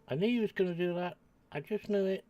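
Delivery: real exasperated shout; exasperated outburst. Real, not acted. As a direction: vent at the game for dropping you in. Exasperated at game trick.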